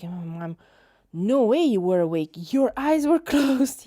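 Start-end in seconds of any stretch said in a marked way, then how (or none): 1.1-3.9 loud, incredulous mock reply; retold disbelieving mom. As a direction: act out mom's disbelief with a laugh breaking in.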